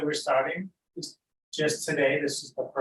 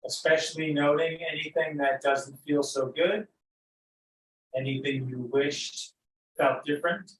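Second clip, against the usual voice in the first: unhurried, lead them gently into noticing breath and body; guided meditation. Real, not acted.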